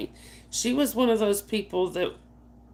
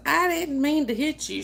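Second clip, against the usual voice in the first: imitating father-in-law; 7 semitones higher than usual. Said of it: "And he goes".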